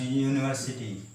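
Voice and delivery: यूनिवर्सिटी begun with a "ye" glide; Y sound at start. Shown as a demonstration. Teacher gives another example, यूनिवर्सिटी starting with Y. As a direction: open यूनिवर्सिटी on a consonant Y. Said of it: "ये यूनिवर्सिटी".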